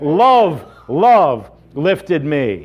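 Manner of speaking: slow, drawn-out hymn line; hymn refrain. Acted. Preacher quotes a beloved hymn to congregation, slow and drawn out. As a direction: linger on each word of the refrain.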